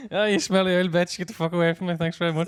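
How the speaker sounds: hammed-up telling-off, then a sweet thank you; mock insult. Playing his rude reply to the fan, hammed-up insult.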